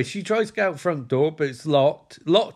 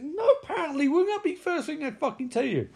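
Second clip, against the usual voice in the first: much higher, laughing through the words; laughing disbelief; 11 semitones higher, faster than usual. Real, not acted. Narrator mocks the dad's line, laughing high. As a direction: crack up at the absurdity.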